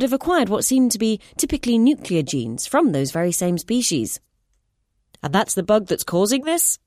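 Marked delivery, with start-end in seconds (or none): 5.2-6.8 higher, eager voice through a screen; metallic voice. Acted. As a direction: cut in over a speaker. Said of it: "the screen interrupted".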